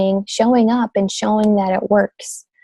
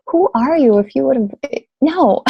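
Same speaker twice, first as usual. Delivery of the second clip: higher-pitched, incredulous reaction; who-do-you-think-you-are reaction; incredulous rebuff; 4 semitones higher than usual. Retold or imitated. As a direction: push back, mock-offended at a stranger's pitch. Reacting to cold sales message.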